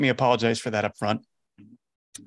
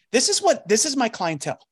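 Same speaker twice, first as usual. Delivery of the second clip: sudden realization; 9 semitones higher than usual. Real, not acted. Realizing his hidden audience.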